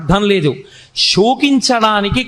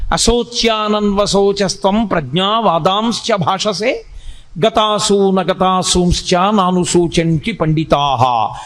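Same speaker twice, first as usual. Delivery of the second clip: slow, measured Sanskrit chant; verse recitation; slower than usual. Acted. Teacher intoning Krishna's opening verse to listeners, slow chant. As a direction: intone the sloka slowly and evenly.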